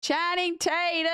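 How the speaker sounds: excited. Real, not acted. Shouting donor name again.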